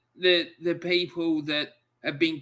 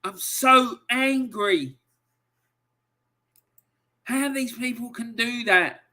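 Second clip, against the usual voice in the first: angry and close to tears; 6 semitones higher than usual. Real, not acted. Streamer repeating his feelings to viewers, tearful anger. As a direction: drag it out as if about to cry. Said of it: "it's making me wanna cry".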